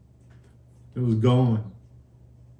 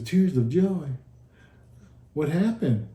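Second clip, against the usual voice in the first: higher-pitched, mildly puzzled echo; lightly acted surprise, pitch raised; retold puzzlement; 3 semitones higher than usual. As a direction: imitate a nurse questioning what she just heard. Retold nurse questions his answer.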